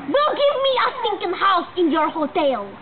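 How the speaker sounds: indignant mock Russian man; hammed-up Russian accent. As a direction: complain in a put-on Russian accent. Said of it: "Russian accent".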